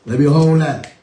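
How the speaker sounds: laughing through the words. Acted. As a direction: say it while cracking up. Joking banter, laughing request.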